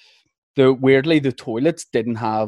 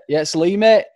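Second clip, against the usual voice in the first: a wee put-on Bolton accent, pitched higher and louder; light Bolton accent; 6 semitones higher, 4 dB louder than usual. Lying to the director from the toilet, faked light Bolton accent. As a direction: pass yourself off as Lee from Bolton with a hint of accent. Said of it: "I put on a wee bit of an accent".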